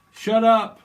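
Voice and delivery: sudden loud snap of shut up; shouting at the banging noise; angry shout. Acted. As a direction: bark it out, fed up. Head banging, yelling shut up.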